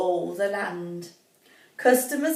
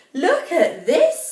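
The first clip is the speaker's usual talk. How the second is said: Rapunzel; 5 semitones higher, 4 dB louder, slower than usual. Acted. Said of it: "said Rapunzel".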